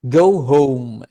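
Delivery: "go" stressed, "home" unstressed. Shown as a demonstration. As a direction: lean hard on "go", let "home" fall away light. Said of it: "يصير عندك go ثقيلة و home".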